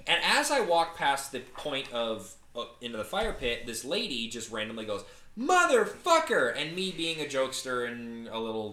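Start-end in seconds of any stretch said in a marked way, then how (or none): 5.4-6.6 high, drawn-out, louder yell; retold yell. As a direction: yell it out high and slow, imitating her. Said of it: "the same gal that yelled".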